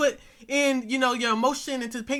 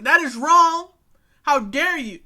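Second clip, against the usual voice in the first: raised, indignant imitation of outraged animal lovers; mock outrage; 3 semitones higher, 6 dB louder than usual. Imitating the public reacting to a killed animal, mock outrage. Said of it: "it's automatic".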